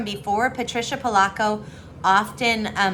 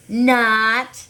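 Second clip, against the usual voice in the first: louder, pushed Not; 2 semitones higher, 5 dB louder than usual. Acted. Sister answering her brother louder, a louder push. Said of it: "I said louder".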